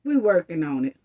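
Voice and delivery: low sarcastic echo; mock brush-off. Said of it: "same way y'all said".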